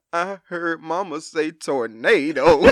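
put-on child crying out the word; imitating tearful child. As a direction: whine it out like a scared kid. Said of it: "daughter's answer".

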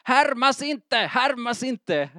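put-on high, sing-song childish complaint; mock sibling whine. Preacher imitating his squabbling boys at home. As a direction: whine it like a kid being copied. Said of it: "man hörde".

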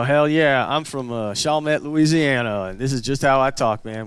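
put-on generic redneck accent; proud Louisiana redneck, in a stock redneck twang. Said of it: "the redneck voice is the same everywhere".

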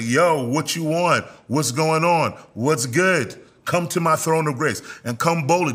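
a touch of eager, open invitation; excited welcome. Acted. Preacher voices God greeting someone who prays, lightly excited. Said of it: "God is excited".

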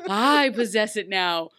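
slow haughty mock. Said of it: "I can't even say it the way she said it".

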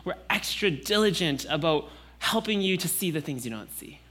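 put-on caring relatives talking to a toddler; fussing parent. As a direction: coax the little one while fussing over her. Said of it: "everyone around her says".

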